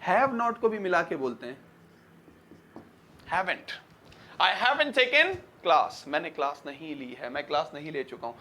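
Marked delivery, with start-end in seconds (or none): 3.3-3.7 "haven't" with the t dropped; "haven't" ending soft on n; silent t. Shown as a demonstration. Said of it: "बोलने में टी silent कर देते हैं". 4.4-6.1 slow, "haven't" without the t; slow teaching read, t swallowed in "haven't"; silent t demo. Shown as a demonstration. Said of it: "बोलने में टी silent कर देते हैं".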